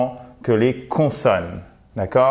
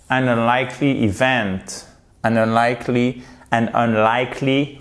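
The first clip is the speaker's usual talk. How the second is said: unlikely with LIKE leaned on; stressed LIKE. Shown as a demonstration. Teacher drilling the phrase, stressed LIKE. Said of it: "accent ici".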